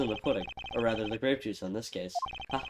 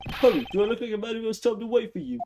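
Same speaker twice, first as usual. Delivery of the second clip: higher, impatient bad Scottish brogue; impatient Scottish accent; 7 semitones higher, 3 dB louder than usual. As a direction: hurry him along in a fake Scottish accent. LeBlanc impatiently demands.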